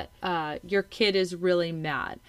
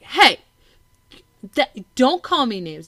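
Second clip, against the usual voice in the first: loud, higher mock telling-off; scolding parent; 4 semitones higher, 7 dB louder than usual. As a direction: act out a parent's sharp objection. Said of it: "instead of being like".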